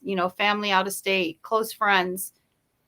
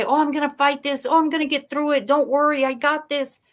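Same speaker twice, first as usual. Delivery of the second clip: brisk, upbeat, falsely confident; mock bravado; 3 semitones higher, 4 dB louder than usual. People boasting to others, breezy fake confidence. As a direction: brush it off like nothing's wrong. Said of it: "They say".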